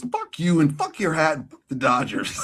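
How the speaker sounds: mock-angry New York tirade; hammed-up New Yorker trading insults; cussing New Yorker. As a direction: rip into them like an irate New Yorker. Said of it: "think that a New Yorker, when they're doing that".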